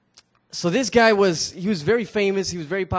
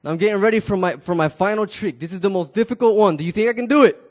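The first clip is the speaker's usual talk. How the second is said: loud announcement; 2 semitones higher, 5 dB louder than usual. Acted. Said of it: "And he says".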